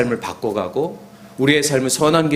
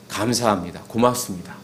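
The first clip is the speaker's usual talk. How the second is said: tender thanks; 6 semitones lower, 6 dB quieter than usual. Shown as a demonstration. Models bedtime thanks to children.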